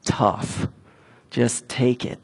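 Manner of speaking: low, soft, unmoved brush-off; understated take-it-or-leave-it; imitated curt dismissal. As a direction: mimic someone dismissing a plea, quietly and low. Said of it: "He's just like".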